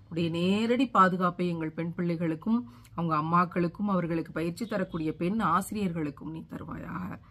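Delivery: subdued, even supplication; earnest closing prayer. Real, not acted. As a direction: pray aloud to God with restraint. Supplicates to God.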